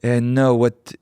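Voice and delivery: put-on slow, measured French-accented gallerist. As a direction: correct them in a deliberate French accent. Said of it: "and the French accent".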